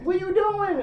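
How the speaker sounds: high incredulous question. Retold or imitated. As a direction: ask in disbelief. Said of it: "I was like".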